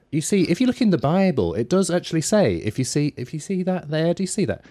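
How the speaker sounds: high-pitched, earnest Bible-pointing preacher impression; mocked doorstep evangelist. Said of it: "to make them sound stupid".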